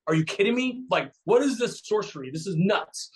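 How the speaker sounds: mock disbelief at fat burning fat; freaking out. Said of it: "like, freaking out".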